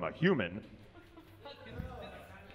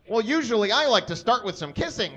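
laughing through the line; 6 semitones higher than usual. Real, not acted. Reading Harry's line, cracking up.

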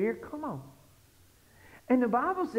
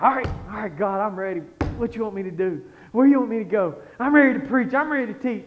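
building louder, rapid-fire volunteering; acted eagerness; 6 dB louder than usual. Preacher replaying his offer to God, building eagerness. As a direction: play the overeager disciple raring to go. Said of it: "I'm like old Peter".

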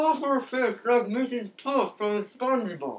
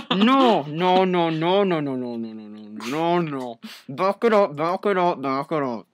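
muffled through duct tape; mouth taped shut; 3 semitones lower than usual. Real, not acted. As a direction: talk through tape over your mouth. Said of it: "I have duct tape on my mouth right now".

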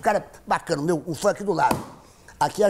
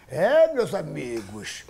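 pilot voice; slower than usual. Retold or imitated. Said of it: "entrou aquela voz, aquele mentiroso".

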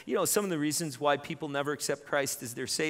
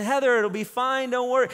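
husband calming; 7 semitones higher, 6 dB louder than usual. Retold or imitated. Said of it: "and then".

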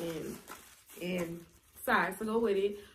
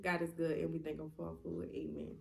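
prayer voice; 5 semitones lower, 7 dB quieter than usual. Shown as a demonstration. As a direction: say grace gently. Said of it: "I say God is great".

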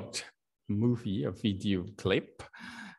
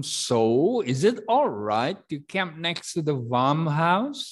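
voicing camper; 7 semitones higher, 6 dB louder than usual. Shown as a demonstration. Teacher reads dialogue line.

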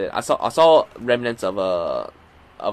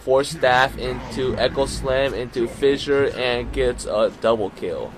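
play-by-play; 3 dB louder than usual. Acted. Live play-by-play of the match.

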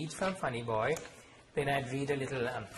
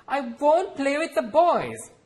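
loud, much higher defiant outburst; defiant cry; 14 semitones higher, 11 dB louder, slower than usual. Acted. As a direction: refuse your mother loudly. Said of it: "I cried defiantly".

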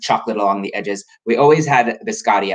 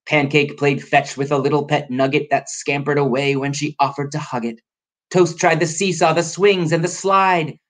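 story narration; 5 semitones higher than usual. A narrator's reading.

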